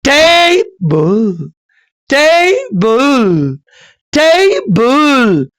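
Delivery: long strong "टे", falling weaker "बल"; trochaic stress. Shown as a demonstration. Teacher demonstrates trochee, stressed then unstressed. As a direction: hit and stretch the first syllable of टेबल. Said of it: "पहले stress आ जाता है".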